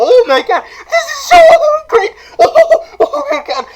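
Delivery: hammed-up tearful joy; squeaking with delight; overwhelmed fanboy squeal. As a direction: shoot up into a high, giddy squeal. Fanboy overwhelmed by meeting idol.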